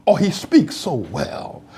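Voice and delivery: slow, lightly voiced patronizing compliment; mock praise. Mocking condescending praise of a Black speaker. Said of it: "you don't say it about white folk".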